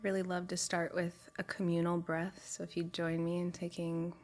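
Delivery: calm, unhurried guide with long pauses; guided meditation. Real, not acted. Guide settling a group with communal breaths, calm meditation voice. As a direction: lead them gently into stillness, leaving space to breathe.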